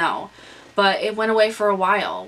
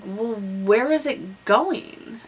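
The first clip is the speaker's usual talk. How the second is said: slow, baffled question; puzzled wondering; 3 semitones higher, much slower than usual. Retold or imitated. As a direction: drawl it out, truly lost. Puzzled self-quote.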